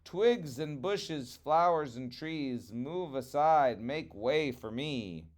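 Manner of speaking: calling out slowly in a fall; chanting a slow command to plants; crying out. Acted. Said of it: "he cried out".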